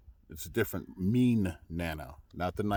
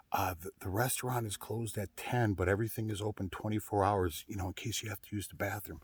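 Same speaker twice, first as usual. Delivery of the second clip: softer, hushed retelling of the owner's tip; retold whisper; 6 dB quieter than usual. Telling viewers what the owner whispered, hushed. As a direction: lightly mimic a confidential hush. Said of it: "she whispers to me".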